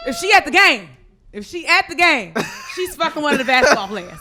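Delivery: loud, laughing through words. Real, not acted. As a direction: giggle out the gossip. Laughing while telling gossip.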